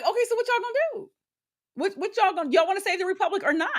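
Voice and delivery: high, fast exasperated demand; fed-up rapid mock rant; exasperated challenge. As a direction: push them, fed up and fast. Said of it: "And I'm like".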